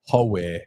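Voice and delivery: "Howe" said as ho-way, rounded first vowel; Newcastle "Howay". Shown as a demonstration. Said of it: "Newcastle is Howe".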